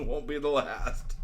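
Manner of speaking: slow, drawn-out echo; slow imitation of a rogue's boast; mimicked boast. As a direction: stretch it out in mock swagger. Co-host echoes it higher.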